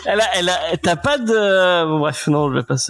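trailing off. Real, not acted. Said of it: "je commence une phrase, je ne sais jamais où elle va".

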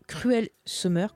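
A song title said slowly in plain French-accented English; simple French accent. Shown as a demonstration. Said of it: "excusez-moi mon accent, je vais le faire simple".

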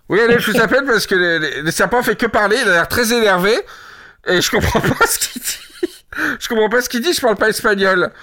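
a bit panicked on the phone; worried caller. Acted. Worried customer phones the shop.

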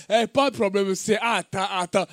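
put-on African accent. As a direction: play a child talking with an African accent. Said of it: "il va parler avec un accent africain". (accent africain imité)

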